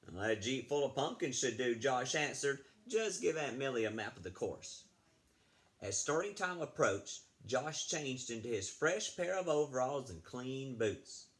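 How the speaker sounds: put-on lively read-aloud for children; storybook reading. Teacher reading a story to fifth graders, lively read-aloud. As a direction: read the tale to the class.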